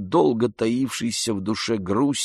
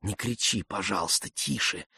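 much softer, hushed begging; pleading softly; 2 semitones lower, 9 dB quieter than usual. A narrator's reading. Oblomov softly begs Andrei not to shout. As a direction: beg him to keep his voice down. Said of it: "упрашивал он".

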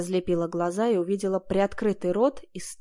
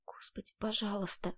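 much softer, wailing prayer; tearful lament; 12 dB quieter than usual. A narrator's reading. Heroine praying in tears under the attack, soft lament. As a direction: plead to God through tears. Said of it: "причитала я, заливаясь слезами".

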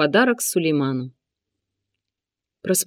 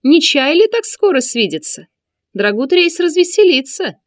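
high, loud taunting eunuch; high sneering villain voice; 6 semitones higher, 5 dB louder than usual. A narrator's reading. Sinan the eunuch speaks.

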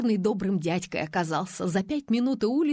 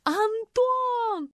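outshouting. A narrator's reading. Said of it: "переорала её Неязова".

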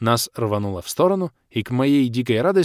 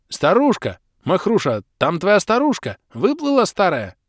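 higher, urgent shouting; excited calling out; 8 semitones higher, 4 dB louder than usual. Acted. Hero shouting to the old man about the old woman, higher and urgent. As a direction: point and call out in alarm.

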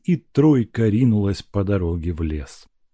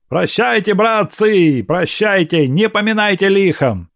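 higher voiced young servant saying goodbye; Evsey's farewell; 10 semitones higher, 4 dB louder than usual. Evsey taking leave of the servants, raised and high. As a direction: part from the household folk.

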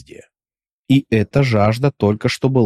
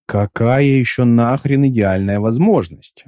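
slow, lightly gruff thug; a hint of a coarse bandit; rough voice. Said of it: "куда более грубый голос".

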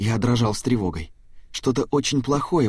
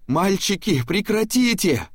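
put-on high, slow frightened shout to the boys; grandma cries out in horror to stop the fight; horrified cry; 10 semitones higher, slower than usual. A narrator's reading. Бабушка в ужасе кричит мальчикам. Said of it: "в ужасе закричала она".

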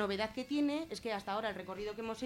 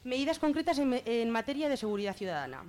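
reading out the title; 4 semitones higher, 5 dB louder than usual. Shown as a demonstration. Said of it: "que leo el nombre".

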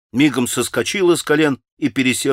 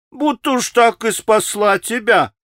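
higher, sneering jeer; mock his gratitude with spite; spiteful laugh-talk; 11 semitones higher than usual. A narrator's reading. Rakitin sneering at Alyosha's gratitude, spiteful jeer. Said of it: "засмеялся Ракитин злобно".

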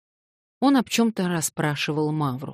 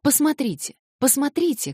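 high, eager cry to the narrator; excited shout; 11 semitones higher, 3 dB louder than usual. A narrator's reading. Alyosha calls the narrator to look, in a high excited cry. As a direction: call out to him to look. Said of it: "кричал он, обращаясь ко мне".

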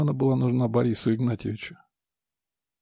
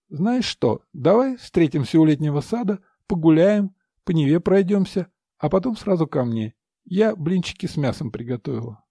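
cooing mistress; 4 semitones higher than usual. Acted. Mistress plans the evening.

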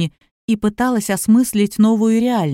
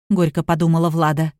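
ordinary delivery

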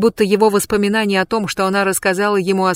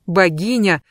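usual speaking voice

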